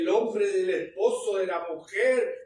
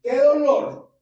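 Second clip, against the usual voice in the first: retold lament; 5 semitones higher, 7 dB louder, slower than usual. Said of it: "el Espíritu Santo me decía".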